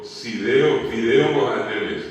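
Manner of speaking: imitated teacher punching "fideo" loudly against "Sideo"; exasperated correction, "fideo" punched; teacher correcting. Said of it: "la profesora le dijo".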